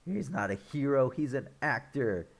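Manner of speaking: mad. Retold or imitated. Upset fans learning he's only an actor, mock mad. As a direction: imitate their outrage, lightly. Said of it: "they're just so mad".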